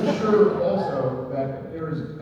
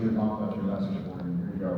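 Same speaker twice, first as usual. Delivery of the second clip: mock serious; 6 semitones lower, 6 dB quieter than usual. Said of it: "So it's very serious".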